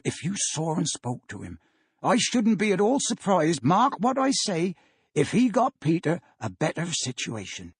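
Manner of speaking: a fond, hopeful father talking up his friend; Bob Cratchit voice. Acted. Bob speaks to his wife.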